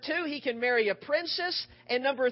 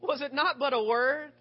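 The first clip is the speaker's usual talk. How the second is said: louder, protesting little brother; indignant little brother; 5 dB louder than usual. Retold or imitated. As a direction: push back like a wronged kid brother. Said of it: "as any little brother would say".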